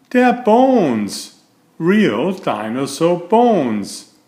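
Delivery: thrilled little turtle finding the bones; excited discovery. Acted. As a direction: gasp it out in amazement. Franklin sees the skeleton.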